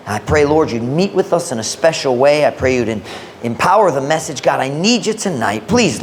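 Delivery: quick, low spoken prayer; real prayer. Real, not acted. Preacher asking God to bless tonight's message, real prayer.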